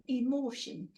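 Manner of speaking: emotion in a Geordie accent, vowels broadened the Geordie way. Shown as a demonstration. Teacher trying out emotion in a Geordie accent for the class. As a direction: have a go at emotion with a Tyneside Geordie lilt. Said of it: "should be said in a Geordie accent".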